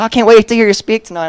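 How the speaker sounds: high, loud imitation of an eager fan; eager gushing. People in the halls greeting tonight's speaker, gushing.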